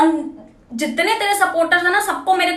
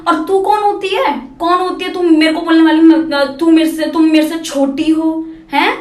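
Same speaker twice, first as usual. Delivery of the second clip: angry; 4 dB louder than usual. Real, not acted. Angry rant at a critic.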